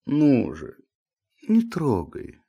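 gentle, sleepy protest; meekly. A narrator's reading. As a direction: plead mildly to be left alone. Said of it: "кротко заговорил Илья Ильич".

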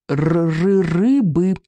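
stammered creature demand; hungry hatchling voice; stuttering little dragon. A narrator's reading. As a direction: stick on the first sound, then push the word out. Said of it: "пищал Беззубик".

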